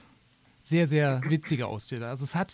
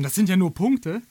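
dismissive scoff; 2 semitones higher, 6 dB louder than usual. Retold or imitated. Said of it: "Natürlich nur der Banause würde sagen".

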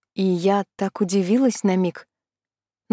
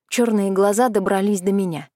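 usual speaking voice

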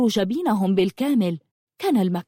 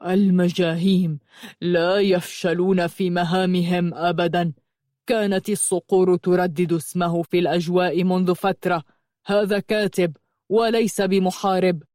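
hoarse angry phantom; 2 semitones lower than usual. A narrator's reading. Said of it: "قال بصوت أجش غاضب وكأنه نابع من بئر عميق".

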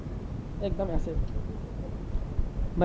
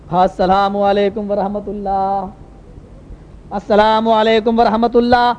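slow, drawn-out ritual salaam; imitating imam's prayer salaam; slower than usual. Imam closes the prayer with salaam, slow intoning. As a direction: intone it slowly, stretching the vowels.

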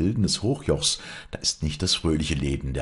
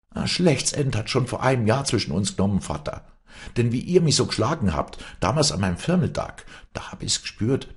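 put-on fast, higher, bitter young woman; defiant daughter; 7 semitones higher, 3 dB louder, faster than usual. A narrator's reading. Wally renouncing her father, fast bitter defiance. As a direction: pour out years of hurt, defiant.

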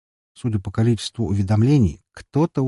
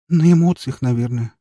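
squeezed out; 5 semitones higher, 5 dB louder than usual. A narrator's reading. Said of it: "выдавила она".

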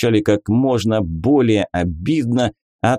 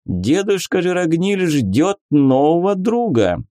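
sly, smiling cultist; smiling priest voice; 7 semitones higher than usual. A narrator's reading. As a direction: say it with a sly smile. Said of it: "с улыбкой сообщил Врааль".

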